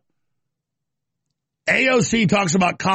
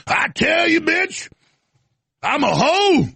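mock Fat Albert voice; 5 semitones higher, slower than usual. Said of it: "fake, uh, Fat Albert voice".

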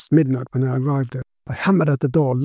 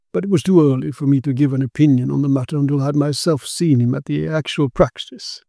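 put-on lightly raised voice of the old investigator, grave; grave Quinn; 2 semitones higher than usual. Quinn explaining the sorcerer's death to his friend, grave and measured.

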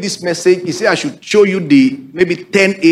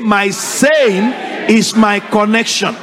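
slow, drawn-out repeat again; slow congregational echo; 3 semitones higher, slower than usual. Shown as a demonstration. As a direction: chant it back slowly. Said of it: "Say it again".

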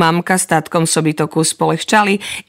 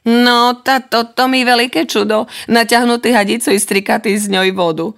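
ordinary delivery, nothing marked

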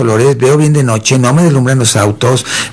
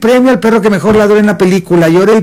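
higher, hammed-up ceremony voice; mock awards announcer; 8 semitones higher, faster than usual. Mocking the endless awards show, as a hammed-up presenter. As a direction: parody a pompous presenter.

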